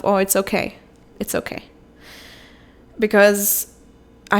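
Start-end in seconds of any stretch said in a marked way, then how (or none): 0.1-0.8 gentle reassurance to herself; calm yourself down after a slip; soothing self-talk. Retold or imitated. She tells herself it's okay, reassuring. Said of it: "just told myself". 1.2-1.6 much softer, almost breathless it's okay; hushed reassurance. Retold or imitated. To her inner child, hushed and soothing. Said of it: "just told myself".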